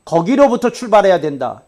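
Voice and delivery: full-force preacher's rebuke; preaching. Acted. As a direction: drive it home from the pulpit.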